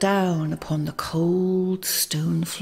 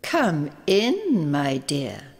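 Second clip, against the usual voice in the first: put-on old woman whispering; 3 semitones lower, slower than usual. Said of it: "whispered the old woman".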